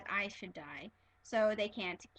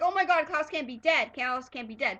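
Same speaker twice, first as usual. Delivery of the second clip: mock fan panic; 3 semitones higher, 7 dB louder than usual. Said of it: "They're like".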